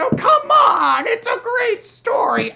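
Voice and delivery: hammed-up exasperated yell; mock pleading shout at the villain. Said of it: "I'm saying".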